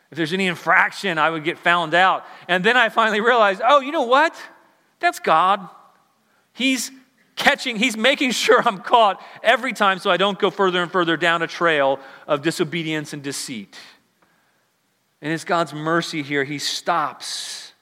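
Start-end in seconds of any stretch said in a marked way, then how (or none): 3.6-13.8 louder and higher, a sudden eureka; excited realization. Retold or imitated. Preacher reliving his realization about God, excited. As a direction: burst out with the discovery, half laughing. Own realization quoted with a laugh.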